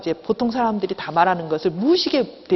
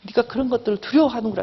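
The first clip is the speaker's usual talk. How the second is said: gently acted self-acceptance; understanding, accepting. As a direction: talk to yourself with understanding, without blame. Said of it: "이렇게 이해해주고 수용해주는 거예요". (이해하고 수용해주듯 다독이며)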